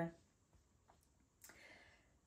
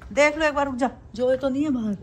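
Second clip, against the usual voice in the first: pet talk; 5 semitones higher, 5 dB louder, faster than usual. Real, not acted. Telling pet to wait and check.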